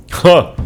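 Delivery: a single loud, high bark of a laugh. Acted. Warrior laughs at Enoch's fear, a loud ha. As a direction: punch out one laugh.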